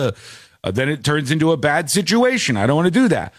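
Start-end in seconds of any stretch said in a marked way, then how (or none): 0.1-0.2 drawn-out "ugh" of dismay; dismayed groan. Retold or imitated. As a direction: groan as if caught out too late. Acts out dismay at late request.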